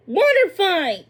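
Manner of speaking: loud, high gleeful shout; excited. Acted. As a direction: shout back joining the game. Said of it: "Pippa agreed".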